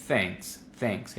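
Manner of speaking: thanks with little mouth movement, quiet; thanks with minimal movement; neutral thanks. Shown as a demonstration. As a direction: keep the mouth small on thanks. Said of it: "Mucha activación de la voz".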